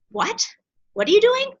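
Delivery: high incredulous what are you doing; mock the friends' disbelief; shocked friends. Friends reacting to her new business, high incredulous.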